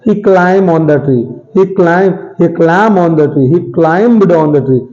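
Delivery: very slow, word by word; slow model sentence. Shown as a demonstration. Teacher dictating a sample sentence slowly. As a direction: read each word out slowly for the class. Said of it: "climb बोलते हैं".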